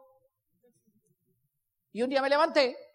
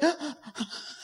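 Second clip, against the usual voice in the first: mock sobbing gasps; imitated sobbing; 6 dB quieter than usual. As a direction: act out an old man's sob. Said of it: "me despertaba su sollozo". (sollozo imitado, entrecortado)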